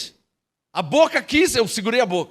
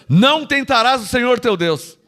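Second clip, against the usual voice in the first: said strongly; 5 dB louder than usual. Shown as a demonstration.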